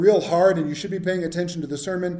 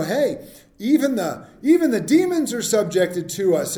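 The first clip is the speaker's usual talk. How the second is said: eager and raised, reporting good news; excited disciples; 4 semitones higher, 4 dB louder than usual. Retold or imitated. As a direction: boast a little, thrilled. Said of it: "they're all excited about what they got to do".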